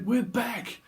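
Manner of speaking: high, loud announcement; mock film shout. Reader quotes a film character announcing a return, shouting. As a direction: belt it out like a film line. Acting out remembered film exchange.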